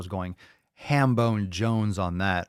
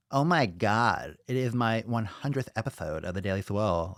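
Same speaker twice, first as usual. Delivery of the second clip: fake Kashina voice. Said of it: "in Kashina's fake voice".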